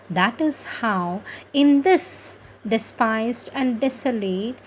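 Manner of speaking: measured scripture reading, each phrase set apart; devotional reading. Acted. Devotional reader to listeners, a measured scripture reading. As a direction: read the holy words out with reverence. Reads the Mother's words aloud.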